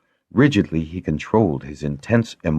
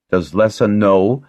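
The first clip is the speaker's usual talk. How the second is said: "know" given pointed emphasis; stress on KNOW; 4 semitones higher, 4 dB louder than usual. A narrator's reading. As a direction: lean on the word "know". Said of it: "emphasizing the last word".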